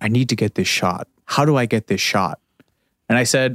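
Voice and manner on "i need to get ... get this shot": speaking very low. Speaker retelling what the director came over and said: very low voice. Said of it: "said in this very low voice".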